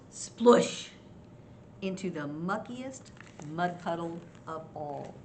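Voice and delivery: animated read-aloud climbing to a big splash; story narration. A narrator's reading. Grandma tells children of Mouse rolling, animated storytelling. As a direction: build the roll, then burst on the splash. Reads a picture book to children.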